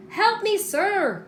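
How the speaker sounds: high, slow pleading cry; little man crying. A narrator's reading. The trapped leprechaun begging old Pat, a high slow plea. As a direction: beg the stranger for help. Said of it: "cried the little man".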